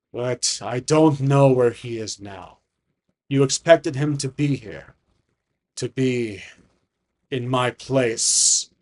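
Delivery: slow, grand dragon speech; rumbling dragon. Acted. Dragon on his missing brother, slow rumbling grandeur. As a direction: stretch each phrase as if it fills a cathedral. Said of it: "his voice rumbles throughout the area".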